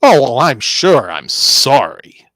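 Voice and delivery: loud drawn-out sarcastic apology. Acted. Answering the angry coworker with loud sarcasm. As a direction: sneer the sorry slowly. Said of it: "that's sarcasm".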